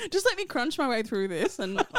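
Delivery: talking while chewing popcorn; mouth full. Real, not acted. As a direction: crunch through the words with food in your mouth. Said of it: "Are you eating while you're talking?".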